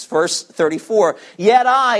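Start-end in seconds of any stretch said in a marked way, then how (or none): 1.4-2.0 "I" given firm weight after "Yet"; emphatic I. A narrator's reading. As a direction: lean strongly on "I". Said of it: "is emphatic too".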